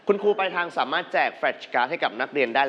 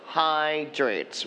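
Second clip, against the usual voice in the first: hydrates with the first syllable HY stressed and drawn out; stress on HYDRATES' first syllable. Shown as a demonstration. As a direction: lean on HY in hydrates. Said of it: "stress on the first syllables".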